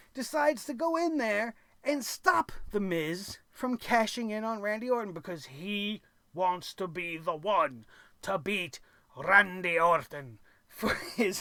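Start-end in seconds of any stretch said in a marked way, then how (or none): 6.4-11.4 put-on speaking with Scottish accent. Speaker recaps Drew McIntyre stopping The Miz from cashing in, Drew McIntyre Scottish accent. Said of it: "I don't know why I'm turning into Scottish man".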